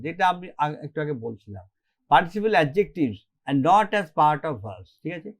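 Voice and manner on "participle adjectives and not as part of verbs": slow dictation. Shown as a demonstration. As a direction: dictate the rule slowly for notes. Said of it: "slow dictation of rule".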